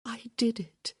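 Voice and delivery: whispered in awe; hushed whisper. A narrator's reading. Hyacinth to Gareth, an awed whisper. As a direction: breathe it out, amazed.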